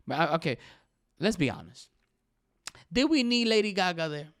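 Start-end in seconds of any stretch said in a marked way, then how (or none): 2.9-4.3 incredulous question. Real, not acted. Mock rhetorical question.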